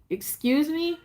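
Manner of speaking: high, disbelieving "excuse me?"; incredulous. Retold or imitated. Answering the ex's smart-girl remark, high and incredulous. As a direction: caught off guard, half laughing in disbelief.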